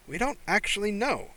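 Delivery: proud grin in the voice; beaming. Acted. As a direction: beam with pride as you say it. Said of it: "Riley beamed".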